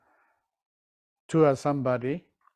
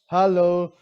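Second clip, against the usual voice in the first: louder call to the room; 2 semitones higher, 6 dB louder than usual. Real, not acted. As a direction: call out to get an answer. Teacher calls out to class.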